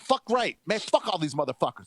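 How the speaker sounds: pumped up, egging the president on; hyped mock bravado; cocky agreement. Speaker acting his cocky reply.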